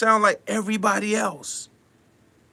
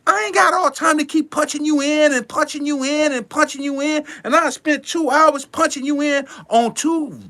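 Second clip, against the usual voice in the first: exasperated; 7 semitones higher than usual. Real, not acted. Exasperated producer rant.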